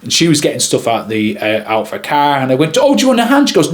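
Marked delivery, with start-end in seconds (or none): 2.8-3.5 high-pitched helpful offer; acted chirpy politeness, pitched well up; eager offer. Videographer offers to help her unload the car, eager politeness.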